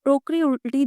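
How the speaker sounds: usual speaking voice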